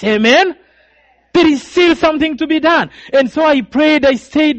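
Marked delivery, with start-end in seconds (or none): 1.3-2.9 preached emphatically. Acted. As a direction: drive the line home to the congregation. Preacher repeats the line to the church.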